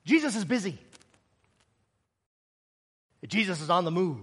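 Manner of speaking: low, soft brush-off with long pauses; hushed dismissal. Acted. Followers tell the beggar Jesus is busy, hushed. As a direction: put him off under your breath.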